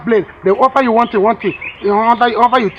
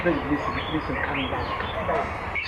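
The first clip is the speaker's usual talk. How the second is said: much softer, lower calming; soothing hush; 11 semitones lower, 16 dB quieter, slower than usual. Acted. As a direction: hush her gently. Husband soothing upset wife.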